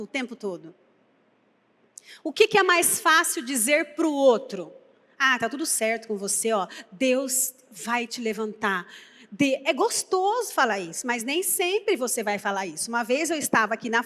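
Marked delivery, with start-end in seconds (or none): 5.2-8.9 soft, low comforting words; soothing reassurance. Acted. Preacher acting out the easy message to another, soothingly. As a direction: reassure gently, slowing toward the end.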